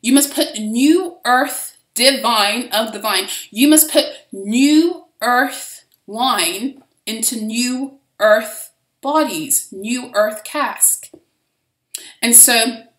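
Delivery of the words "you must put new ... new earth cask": slow, solemn scripture voice; measured preaching cadence; quoting Jesus. Retold or imitated. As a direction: intone it like a gospel reading. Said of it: "where he says".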